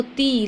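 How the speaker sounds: "ती" with a drawn-out ee; long, easy ee in "ती"; relaxed long vowel. Shown as a demonstration. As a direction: hold the vowel of "ती" at ease. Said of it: "last में हम लोग आराम".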